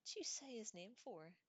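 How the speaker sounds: alarmed shout at Harry; yell. A narrator's reading. Stan yelling at Harry for saying the name. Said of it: "yelled Stan".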